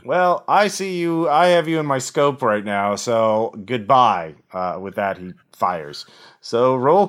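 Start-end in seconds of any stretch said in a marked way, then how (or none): 0.0-4.3 a hint of a cold killer; gravelly voice. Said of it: "a gravelly voice".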